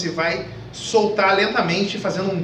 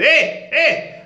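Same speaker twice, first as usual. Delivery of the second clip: chest shout; 10 semitones higher than usual. Shown as a demonstration. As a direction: yell from the throat and chest, straining. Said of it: "Você não vai ficar gritando com a tua, teu peito".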